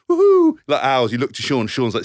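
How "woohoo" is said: high loud woohoo; drunken whoop. Retold or imitated.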